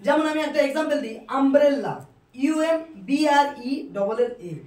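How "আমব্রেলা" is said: loud, falling "আমব্রেলা" opening on a clear "a"; initial U as "a". Shown as a demonstration. Teacher giving class an example, "আমব্রেলা" pronounced with initial "a". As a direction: say "আমব্রেলা" with an open "a", not "yoo". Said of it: "অর্থাৎ আ এর মতো হচ্ছে".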